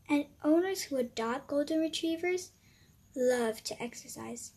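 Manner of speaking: high, loud and lecturing; a know-it-all little friend; bossy little character voice. Acted. Cupcake's voice.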